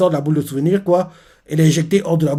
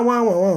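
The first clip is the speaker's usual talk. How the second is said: mock crying wails; 6 semitones higher than usual. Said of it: "il pleure, il fait ouah".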